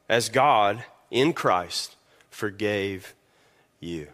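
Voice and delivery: measured, solemn reading from the Bible; scripture reading. Acted. Pastor reads scripture aloud.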